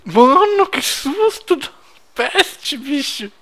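high, loud startled cry; startled shout. Real, not acted. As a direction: yelp it out in fright. Startled after sudden gunfire.

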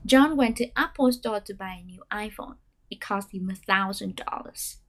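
whole sentence read, stepping down with lifts on new words; staircase intonation. Shown as a demonstration. Teacher reads the full practice sentence. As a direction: run it together, lifting only new information. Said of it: "chỉ khi có thông tin mới thì chúng ta mới lên giọng".

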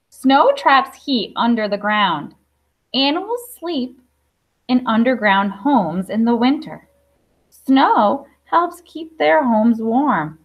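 slow, careful read-aloud of a picture book; reading to children. Acted. Teacher reading a snow book to her class, slow and clear. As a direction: read each line slowly for little listeners.

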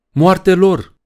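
loud, very high-pitched yell; howled war cry. A narrator's reading. Poe yelling death to the crew while charging, loud high howl. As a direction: howl it as you charge into battle. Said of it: "urlă Poe".

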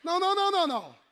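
loud high no's, rising in force; authoritative no. Shown as a demonstration. Preacher showing how to refuse the devil, loud authority. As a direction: shut him down hard. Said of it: "Like authority".

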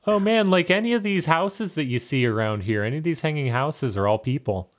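offhand helpful answer; lightly voiced bird baker. Macadamia points out neighbors.

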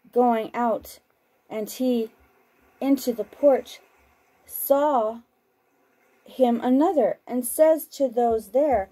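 measured, unhurried Bible reading; scripture reading. Acted. Broadcaster reading scripture to listeners, measured and solemn. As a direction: read the Gospel aloud, steady and solemn. Reads Gospel passage aloud on broadcast.

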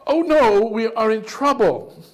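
high, loud mock panic; mock fear, high pitched; mock alarm. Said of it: "all these things were like".

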